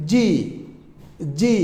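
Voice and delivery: "জি" said firmly, with a hard onset. Shown as a demonstration. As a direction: press firmly into "জি". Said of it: "একটু শক্ত করে উচ্চারণ". ("জি" একটু শক্ত করে)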